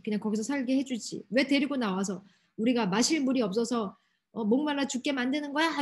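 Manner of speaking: mildly heated, acted-out grumbling; mock indignant protest; angry complaint. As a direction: complain like an aggrieved crowd, only moderately worked up. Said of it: "이러면서 막 화를 막 내기 시작하는".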